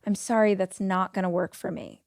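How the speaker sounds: calm, even, unmoved refusal; same calm line again and again; broken record. Shown as a demonstration. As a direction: repeat it flat and steady like a broken record. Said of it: "be a broken record".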